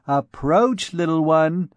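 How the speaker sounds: a small girl's mock-grand copy of the summons; a child aping the lady's stately call; comical dignity. Little Bérengère mimicking her elder, comically dignified. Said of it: "repeated with comical dignity".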